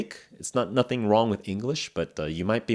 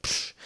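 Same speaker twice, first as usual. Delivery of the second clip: swatting psh; 5 dB quieter than usual. Shown as a demonstration. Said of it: "killing a fly".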